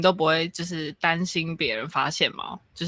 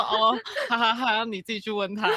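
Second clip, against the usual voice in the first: awkward laugh; 12 semitones higher than usual. Retold or imitated. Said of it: "我就会说".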